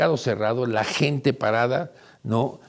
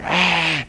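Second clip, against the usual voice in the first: mock shout; 6 semitones higher, 3 dB louder than usual. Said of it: "alguien grita por acá".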